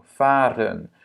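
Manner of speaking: Fahren with a long first A; long first vowel. Shown as a demonstration. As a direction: hold the A in Fahren. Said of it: "la première voyelle est longue". (« Fahren » avec un premier A long)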